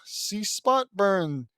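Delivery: deliberate mock-heroic reading; slow battle cry. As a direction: draw out each of the three words. Trying out a puzzling catchphrase.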